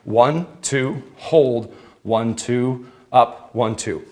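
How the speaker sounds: counting workout reps. Shown as a demonstration. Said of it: "just follow with me".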